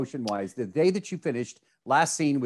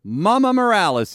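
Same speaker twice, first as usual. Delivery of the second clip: excited announcement; 7 semitones higher, 7 dB louder than usual. Real, not acted. Announcing mom's segment.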